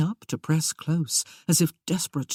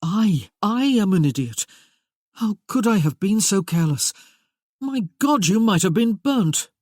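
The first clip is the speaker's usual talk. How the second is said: upset self-blame; 4 semitones higher, 4 dB louder than usual. Acted. He is furious with himself.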